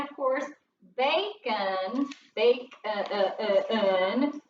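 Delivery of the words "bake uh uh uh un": "uh, uh, uh, un" as short, low repeated schwas; isolated schwa sound. Shown as a demonstration. Teacher showing first graders the schwa in bacon, sounded out. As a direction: break off "bake" and repeat the weak "uh" before "un". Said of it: "making his schwa sound".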